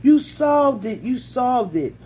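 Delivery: high, loud joyful shriek; excited scream. A narrator's reading. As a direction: scream it out with delight, slowly.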